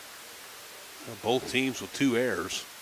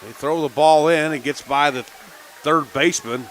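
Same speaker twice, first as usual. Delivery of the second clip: loud, high, rapid-fire call as the run scores; excited play call; 5 semitones higher, 11 dB louder than usual. Real, not acted. Announcer shouting the big play to radio listeners, excited and loud. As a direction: let it erupt as the ball gets away.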